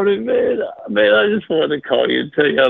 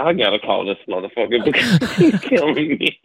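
laughing; 2 semitones lower than usual. Real, not acted. Caller breaking up laughing.

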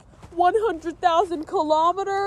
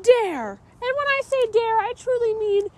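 indignant; 3 semitones higher than usual. Acted. Accused character protests indignantly.

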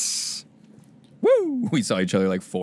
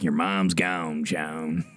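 low, slow, lightly voiced gruff TV dad; a hint of a weary sitcom father, drawn out; Sean Hunter's dad; 8 semitones lower, 5 dB quieter, much slower than usual. Imitating a TV dad telling his son the news, low and slow. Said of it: "that's my impression".

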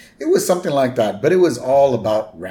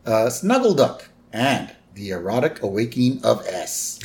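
announcer voice. Retold or imitated. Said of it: "This is another announcer".

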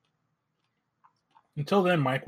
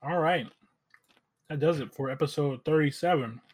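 talking while chewing candy; words round a bite of food; mouth full. Real, not acted. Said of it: "Sorry, I'm, I'm eating an M and M".

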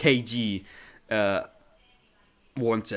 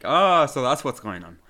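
raised, louder mock "aha" moment; dawning realization; 2 semitones higher, 6 dB louder than usual. Host voicing himself on a rewatch, mock sudden understanding. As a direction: play finally getting it. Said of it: "to be able to be like".

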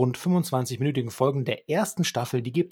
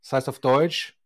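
overdriven, too close to mic; clipping from mic too near; fuzz distortion; 5 dB louder, faster than usual. Real, not acted. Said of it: "Kannst du bitte nicht so nah ans Mikrofon gehen? Ich, du übersteuerst total".

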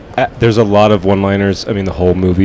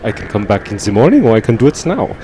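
put-on brisk, light German accent; Terry Gar's German accent; faster than usual. Actress on the phone to the director, in a put-on German accent. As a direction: imitate an eager German-accented reply. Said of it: "with her German accent".

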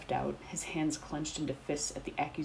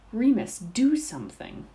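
higher and louder urgent begging; desperate plea; 7 semitones higher, 8 dB louder than usual. A narrator's reading. Dorcas begging Remus to stop the fight, urgent plea. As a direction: cry out for help as the fight breaks out. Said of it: "Dorcas pleaded".

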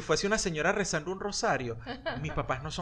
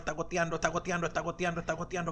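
fretful repeated worry; anxious muttering; faster than usual. Retold or imitated. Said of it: "vainas aprendidas de tu madre".

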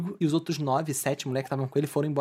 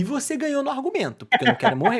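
high-pitched, comic surrender; joking concession; 8 semitones higher, 4 dB louder than usual. Retold or imitated. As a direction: give in at once, half laughing. Comic retold reply to a death threat.

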